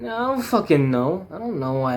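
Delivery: high, loud exasperated snap; frustrated outburst. Acted. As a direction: burst out, fed up with the question.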